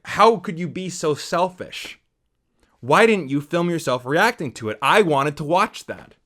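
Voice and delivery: a loud, drawn-out mock scolding; mock outraged commenter. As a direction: play the offended viewer, overdoing the outrage. Mocking an angry commenter's comment.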